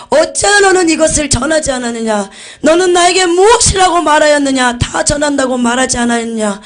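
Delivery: high, loud stern scolding; rebuking voice of Jesus. Retold or imitated. Jesus scolding the pastor over the book, loud rebuke. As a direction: demand an answer, reproachful and booming. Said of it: "예수님이 책망하시더라고요".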